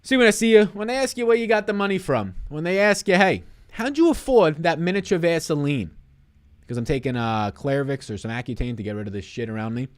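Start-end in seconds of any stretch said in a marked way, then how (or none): 0.0-5.9 high, loud hyped delivery; excited. Acted. Hyped mock asking.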